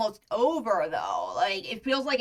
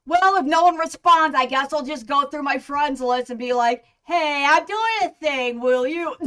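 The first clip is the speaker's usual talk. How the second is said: excited inner voice; 5 semitones higher, 6 dB louder than usual. Retold or imitated. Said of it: "'cause I'm like".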